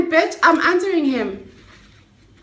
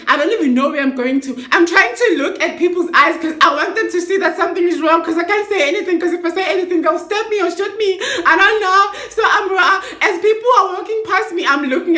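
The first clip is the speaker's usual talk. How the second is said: higher, fast, laughing through it; nervous laughter; 5 semitones higher, faster than usual. Real, not acted. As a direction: rush the words with a nervous laugh. Nervous laughing while retelling fear.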